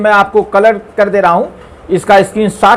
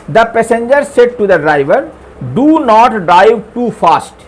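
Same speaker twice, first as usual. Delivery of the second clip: slow dictation; much slower than usual. Shown as a demonstration. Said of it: "ये indirect है".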